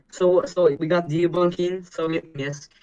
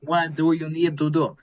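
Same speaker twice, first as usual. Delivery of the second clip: lightly put-on Russian accent. Shown as a demonstration. Showing Devin how it is said, Russian accent. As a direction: demonstrate a Russian-accented scolding. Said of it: "You do a Russian accent".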